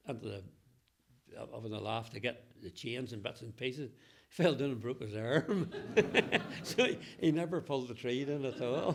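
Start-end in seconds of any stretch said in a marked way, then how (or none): 4.3-5.7 laughing. Real, not acted. Laughing at punchline. 5.8-6.6 laugh. Real, not acted. After the broken arm punchline. 6.6-9.0 laughing. Real, not acted. Laughing through the tag line.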